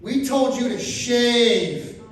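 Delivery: a hint of a disapproving nurse; stern nurse. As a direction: drag it out like a stern old nurse. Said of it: "she leans down and she goes".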